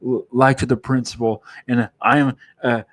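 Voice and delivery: a mildly voiced mother scolding her son; upset mother. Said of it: "she's upset with her son".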